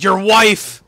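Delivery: big shouted reveal, high and loud; dramatic shout. Retold or imitated. Teddy Long shouting the partner reveal at Booker. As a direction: announce it like a shock twist.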